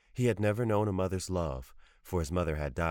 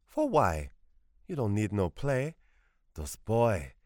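put-on louder, stern old Creole woman; scolding grandmother; 3 semitones higher, 4 dB louder, slower than usual. A narrator's reading. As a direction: scold him firmly like his grandmother.

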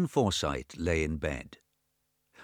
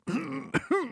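put-on high rasping wheeze of a sick old man. A narrator's reading. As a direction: clear the throat with a thin wheeze. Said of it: "He wheezed".

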